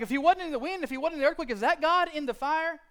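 high, loud desperate questioning; frantic loud wondering; loud urgent asking. Retold or imitated. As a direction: demand it as the field burns. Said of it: "they're like".

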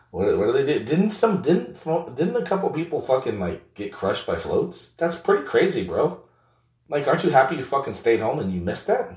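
high-pitched mocking buddy. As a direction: play a rowdy buddy ribbing his pal in a voice well above your own. Second character teases about Mardi Gras.

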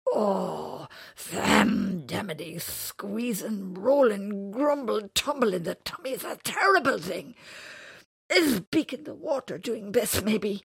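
loud, high, slow worried creature voice; upset creature. Acted. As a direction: moan about the rumbling tummy. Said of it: "He looked quite upset".

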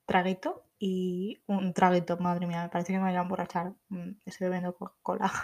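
talking between sips; words around a sip of soda; while sipping a drink. Real, not acted. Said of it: "pausita para beber un traguito".

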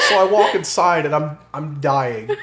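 laughing through the story; cracking up while telling it. Real, not acted.

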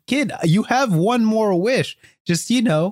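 high-pitched, drawn-out mock consoling; lightly acted plea to console a crying kid; comforting genie. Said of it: "the genie's trying to comfort him".

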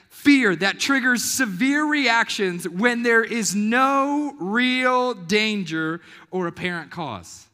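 slow, loud and deliberate; preacher's slow emphasis; slow emphatic definition. Real, not acted. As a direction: spell it out word by word. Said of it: "defines panic attack emphatically".

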